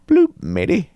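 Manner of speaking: high, hammed-up Australian accent; a cartoon Aussie sailor twang, Australian. Host mocks Aussie delivery in Australian accent. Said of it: "with, like, a Australian accent".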